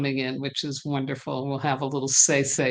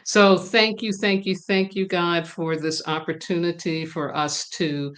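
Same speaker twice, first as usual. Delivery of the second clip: invocation prayer. Acted. Host leads viewers in an invocation prayer, earnest and solemn. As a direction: call on the ancestors like a prayer leader.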